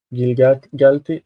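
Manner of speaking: Gilgalti broken up to show the accent; accent on GAL. Shown as a demonstration. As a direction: show where the stress sits in Gilgalti. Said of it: "This is the accent".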